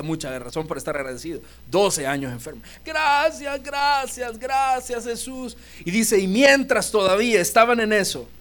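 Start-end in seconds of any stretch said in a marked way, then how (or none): 2.9-5.6 grateful woman. Acted. Healed woman thanking Jesus.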